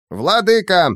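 high panicked creature yell. Acted. Small creature Cain yells for his master, panicked. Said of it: "заорал Каин".

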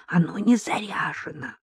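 hushed, soft voice. A narrator's reading. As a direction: say it under your breath. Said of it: "Ещё тише», — сказала Татьяна".

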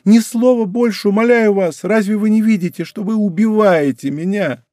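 put-on girl begging the king to stop, desperate; desperate plea. A narrator's reading. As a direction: beg him to stop, in anguish. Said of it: "в полном отчаянии".

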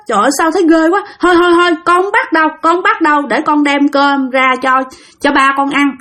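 put-on scared little girl begging off; frightened child. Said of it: "nó nói".

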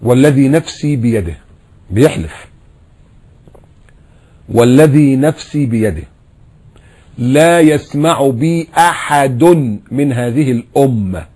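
slow, solemn recitation of the hadith; measured sermon chant. Acted. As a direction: draw out each phrase like scripture.

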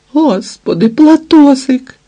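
high, loud tearful wail; wailing cry. A narrator's reading. Ангеліна голосить, побачивши Платона, високий плач. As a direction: wail the name as if overcome. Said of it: "і собі голосила Ангеліна".

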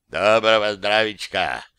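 a lightly voiced reverent bass greeting; hint of a solemn big man's welcome. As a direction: greet the guests with hushed respect from the floor. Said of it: "благоговейный бас Борислава".

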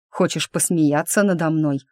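ordinary delivery

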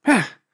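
a dismissive grunt of eh; grumbling eh. Acted. Vigga brushes off the elves with a grumbled eh. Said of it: "пробурчала Віга".

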